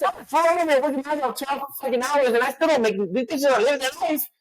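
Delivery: lightly voiced complaining woman; mock woman's voice. Mocking women who live easy.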